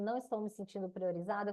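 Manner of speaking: quick, reproachful "Não estou me sentindo priorizada"; complaining. Shown as a demonstration. Wife reproaching husband, quick and cold. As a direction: blame him in one quick line. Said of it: "em vez de eu falar assim".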